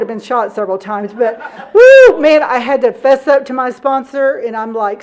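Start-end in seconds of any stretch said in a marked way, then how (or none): 1.7-2.4 fast, loud laughing aside; cracking up and whooping. Real, not acted. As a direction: laugh it out breathlessly. Laughing at own story.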